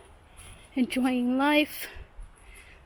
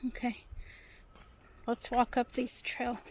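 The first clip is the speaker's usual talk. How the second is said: whisper; 5 dB quieter, slower than usual. Real, not acted. Quiet moment on trail.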